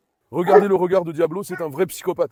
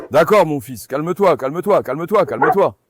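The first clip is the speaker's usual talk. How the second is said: loud, repeated soothing commands; firm calming; 3 semitones lower, 4 dB louder than usual. Real, not acted. Owner repeatedly calming his bristling dog with loud, firm words. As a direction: settle the bristling dog firmly.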